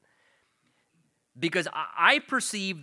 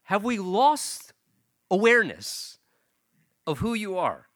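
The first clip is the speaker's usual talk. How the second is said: exasperated God; 3 semitones higher, 4 dB louder than usual. Retold or imitated. God stunned that a speck of dust commands him, loud and high. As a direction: reel the arrogant speck of dust back in. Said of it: "here God is saying".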